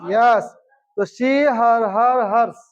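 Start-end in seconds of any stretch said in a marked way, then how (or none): 1.0-2.6 measured chanted pronoun list; drill recitation. Shown as a demonstration. Teacher drilling the corrected word into the class, chanted recitation. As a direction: recite the list for pupils to echo. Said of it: "ये हर है".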